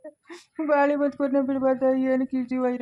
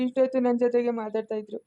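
crying. Acted. Grieving old man, lost son.

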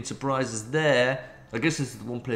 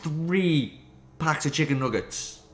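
mock advertisement read; 3 semitones higher than usual.

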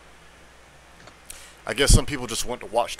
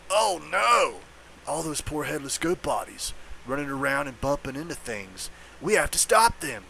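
werewolf; 3 semitones higher than usual. Acted. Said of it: "I got the werewolf's voice down pat".

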